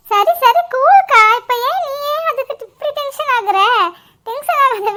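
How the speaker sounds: giggling while telling her to calm down; laughing tease. Acted. Sister teases the upset bride, laughing as she speaks. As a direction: laugh through it, teasing a flustered sister.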